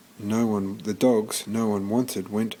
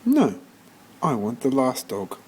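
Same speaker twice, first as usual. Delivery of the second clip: insistent George; 2 semitones higher than usual. Acted. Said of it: "George said".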